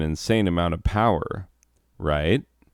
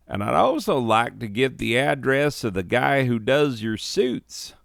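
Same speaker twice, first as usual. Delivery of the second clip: higher, gushing, a bit feminine; camp feminine voice; 5 semitones higher than usual. Acted. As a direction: gush over the suits. Yokel asks about the suits.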